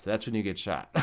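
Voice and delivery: low laughing aside. Real, not acted. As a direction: chuckle the repeat at your own joke. Repeats the punchline, laughing.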